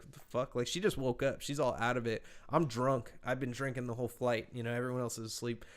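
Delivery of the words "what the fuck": groggy whisper. Retold or imitated. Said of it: "she's still sitting down next to me like".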